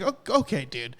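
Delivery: deflate it, mock enthusiasm sinking into dude; unimpressed okay. Unimpressed employee mocking tiny reward.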